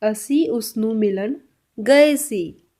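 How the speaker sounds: very slow, word by word; very slow Punjabi model. Shown as a demonstration. Teacher to learners, a very slow Punjabi model. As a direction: drag out असी उसनू मिलन. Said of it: "इसको पंजाबी में कैसे बोलेंगे?".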